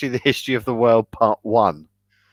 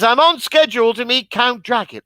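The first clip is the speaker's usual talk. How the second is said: polite Renfield; 7 semitones higher than usual. Retold or imitated. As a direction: ask politely like a prim Englishman. Renfield quote again.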